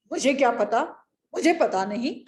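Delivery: loud, short denial; dismissive king. Acted. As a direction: brush off the queen's question. Bearded king admits ignorance. (राजा का टका-सा जवाब)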